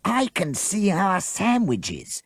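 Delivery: slow, yearning sigh of a line; longing. A narrator's reading. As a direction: pine for the food. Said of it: "said Jessica longingly".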